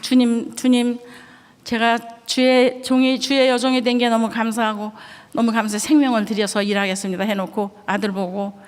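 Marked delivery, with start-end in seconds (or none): 0.0-7.2 earnest prayer. Retold or imitated. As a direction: cry out to the Lord in gratitude. Tearful prayer of dedication.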